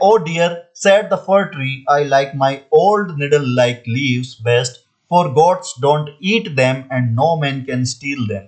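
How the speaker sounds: very slow, word by word, like dictation; deliberate classroom read-aloud; slow textbook reading. Shown as a demonstration. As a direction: read it out slowly for the class to copy. Teacher reads textbook sentence aloud.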